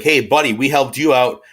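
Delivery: hammed-up chummy plea for help; France as a pushy pal. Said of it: "France is like".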